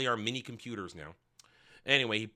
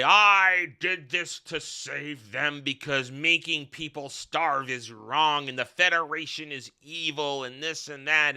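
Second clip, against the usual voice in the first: mock defiant prisoner; 5 dB louder, slower than usual. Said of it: "Paul Giamatti's gonna say".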